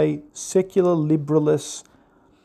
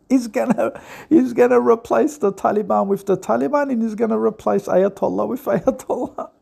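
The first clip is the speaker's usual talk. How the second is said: laughing mockery; 3 semitones higher than usual. Real, not acted. Laughing mockery of Trump's plan.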